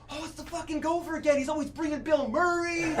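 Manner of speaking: high-pitched, worked-up joke delivery; excited outburst, pitched well above normal; excited bartender. Acted. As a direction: play a bartender all worked up. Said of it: "the bartender gets really excited".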